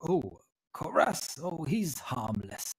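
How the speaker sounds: slow, drawn-out reassurance; lightly voiced old tiefling, dismissive. Tiefling vouches for his hobgoblin companion, slow and lightly dismissive. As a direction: brush off the worry, taking it slowly.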